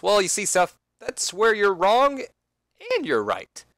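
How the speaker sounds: smug, patient explanation; a singer. Acted. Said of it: "And then the singer responds".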